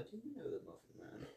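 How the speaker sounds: high, soft posh British put-on; mock English gent asking sweetly; Hugh Grant voice. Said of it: "talking like fucking Hugh Grant".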